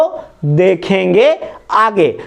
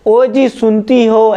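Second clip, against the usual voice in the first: slow, drawn-out call; slower than usual. Retold or imitated. Teacher imitating a husband calling his wife, slow call. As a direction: call your wife from another room. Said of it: "ऐसा बोलते हैं ना".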